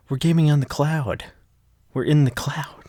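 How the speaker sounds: loud, high hammed-up gamer cheer; mock gamer shout. Recapper joking that the team is cloud gaming, loud mock cheer. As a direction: yell it like a goofy gamer joking about the cloud.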